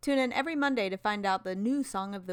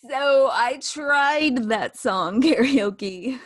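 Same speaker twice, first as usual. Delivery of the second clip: laughing; 4 semitones higher, 6 dB louder, much slower than usual. Real, not acted. Laughing confession.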